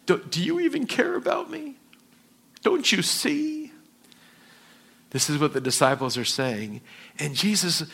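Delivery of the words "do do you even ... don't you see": high, whispered, frantic plea; urgent, breathless disciples' whisper; desperate whisper. Retold or imitated. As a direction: whisper it like you're losing hope. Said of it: "A little more intense".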